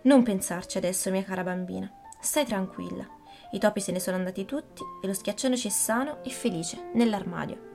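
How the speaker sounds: put-on calm the frightened child; gently. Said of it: "lei disse dolcemente".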